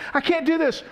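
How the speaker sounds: high-pitched, insistent mock plea; panicky child. Convinced daughter to dad on the bike, panicky protest. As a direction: play a little girl protesting over and over.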